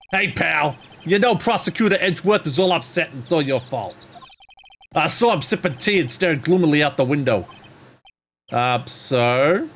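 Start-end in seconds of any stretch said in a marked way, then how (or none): 0.1-7.5 gruff detective voice. Acted. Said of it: "I don't know where these voices are coming from".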